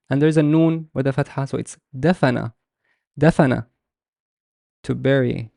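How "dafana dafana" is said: dafana said as one distinct word, falling; teacher demonstrating dafana; careful pronunciation. Shown as a demonstration. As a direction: model dafana clearly. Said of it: "How would I pronounce this?".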